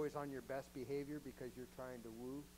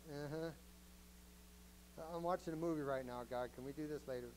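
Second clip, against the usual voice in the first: quieter, quick casual uh-huh; dismissive brush-off; 2 semitones lower, 4 dB quieter than usual. Retold or imitated. Believer brushing off God during a movie, mock dismissive. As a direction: wave God off like he's interrupting the movie. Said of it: "we're like".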